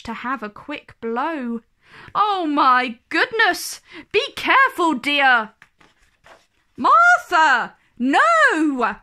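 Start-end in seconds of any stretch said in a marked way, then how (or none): 2.1-9.0 higher, louder cry of alarm; panicked nanny rising to a shout. A narrator's reading. Nanny crying out as Martha misbehaves, alarmed shout.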